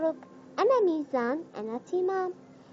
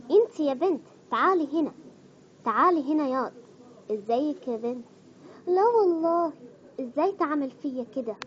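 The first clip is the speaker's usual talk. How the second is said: lightly done Egyptian dialect, calling out; a hint of an Egyptian auntie scolding; Egyptian accent. Shown as a demonstration. Vlogger acting out Egyptian phrases, light Egyptian accent. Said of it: "وهسه راح نيجي على اللهجة المصرية".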